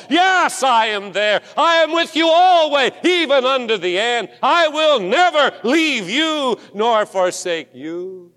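God's reassuring answer, high and strong; clear call. Retold or imitated. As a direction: answer with calm assurance, swelling on always. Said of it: "clear call".

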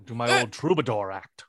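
lightly voiced Sean Connery-style impression; a hint of a Scottish film star; playful celebrity impression; a singer. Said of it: "a singer is Sean Connery".

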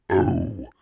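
high, loud startled cry; short acted shriek of alarm. A narrator's reading. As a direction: cry out as if suddenly frightened. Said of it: "Carly Beth shrieked".

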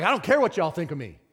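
high, loud joyful shouts, laughing and crying; ecstatic shouting. Retold or imitated. Pastor reliving the day he was saved, shouting with joy. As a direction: shout it out like the floodgates just opened. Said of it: "All of a sudden, I'm like".

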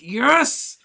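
loud high triumphant yes; excited yes. Retold or imitated. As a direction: cheer like a kid. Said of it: "you'd be like".

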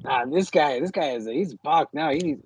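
lightly imitating a coworker's Cabron accent. A friend mocks his coworker in a Cabron accent. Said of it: "now I'm doing a Cabron accent now".

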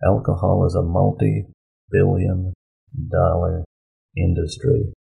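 "multi-billion ... dollar ... industry" with a pause between each part; emphatic, word by word. Real, not acted. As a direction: spell out "multi-billion dollar industry" in slow, separate chunks. Driving home the industry's size.

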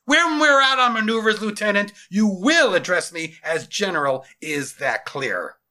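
high, loud, stern dressing-down; yelled reprimand. Acted. General correcting his second in command, yelling sternly. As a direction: bellow it, slowing for the final question. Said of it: "yelled back at his second in command".

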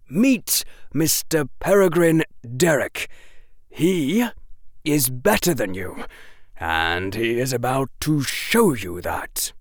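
cold amused mockery; Quirrell's mocking voice. A narrator's reading. Quirrell introduces Derek to Harry, taunting.

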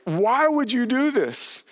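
acting out alarmed disbelief, pitch climbing; panicked, terrified. Terrified sailors confronting Jonah on their boat, acted panic. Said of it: "they're panicked and terrified".

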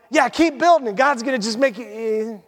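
high, lightly mocking cheer; mock encouragement. Preacher voicing the encouragement he had hoped for, lightly mock-cheery. Acting out the wished-for encouraging prophet.

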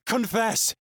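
high piercing screamed word. Acted. Eight screaming through the white noise, piercing. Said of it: "Eight screams so loud".

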